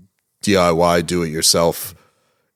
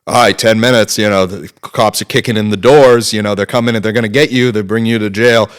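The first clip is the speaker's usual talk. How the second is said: mildly raised, louder re-enacted warning; lightly acted alarm; urgent warning; 2 semitones higher, 5 dB louder than usual. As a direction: pile on the pressure, a little louder. Acting out a high-pressure audition warning.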